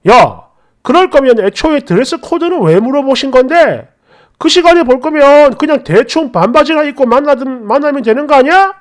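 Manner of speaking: mildly acted sneering complaint; angry sarcasm. Boyfriend scoffing at her dress code question, angry sarcasm. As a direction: needle them with mock indignation. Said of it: "이렇게 대놓고 비아냥거리며 화를 냈어요".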